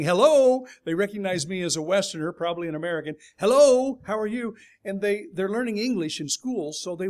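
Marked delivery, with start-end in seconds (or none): 0.0-0.7 put-on kids' greeting. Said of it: "They're saying". 3.4-4.5 high, loud, eager schoolkid hello; kids' greeting. Retold or imitated. Jordanian kids greeting a Western stranger on the street, high eager hello. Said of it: "They're saying".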